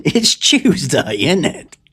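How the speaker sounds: high, slow exaggerated London accent; overdone London accent, high and slow. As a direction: ham up a London accent, drawn out. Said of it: "That's how we say it in London".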